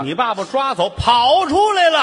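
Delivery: high, loud burst on the last words; sudden shouting punchline; shouted reveal. Acted. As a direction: yell it out like a big twist.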